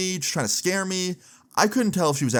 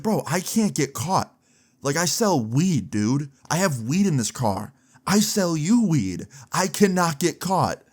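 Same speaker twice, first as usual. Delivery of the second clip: higher, slow, mock-worried buddy voice; imitating panicked friend; 5 semitones higher, slower than usual. Weed-dealer friend fearing arrest, imitated slow panicky plea. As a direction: play the scared dealer pleading slowly.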